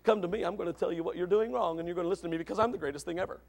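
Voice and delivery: low, soft, rushed smug recital; self-righteous. Acted. Self-righteous helper to a sinner, smugly superior. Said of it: "Don't take them with the thought".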